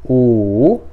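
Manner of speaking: "U" drawn out, dipping then rising; third tone. Shown as a demonstration. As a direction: let "U" sink, then climb. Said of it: "ele desce e sobe".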